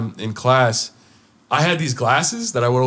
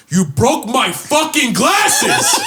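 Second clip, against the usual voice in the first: high, slow laughing yell; a kid hamming up his broken glasses; mock outraged yell; 10 semitones higher, 4 dB louder, much slower than usual. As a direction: fake the outrage through laughter. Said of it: "I was like".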